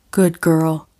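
a hint of a low, commanding man's praise; lightly voiced dominant man. Ben praising Ray in bed, lightly voiced dominant man. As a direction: murmur the praise like a man in control.

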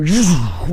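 vocal whoosh of pain shooting upward; sudden whooshing sound effect; imitated shooting pain. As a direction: imitate a jolt with a rushing noise. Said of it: "it'd go".

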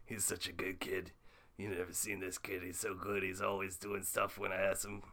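lightly voiced rambling cartoon scientist; casual, muttered anecdote in a light character voice; Rick Sanchez. Rick reminisces about Morty.

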